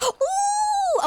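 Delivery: sharp high gasp of fright; startled gasp. Real, not acted. Startled by ghost.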